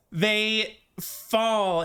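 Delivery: ordinary delivery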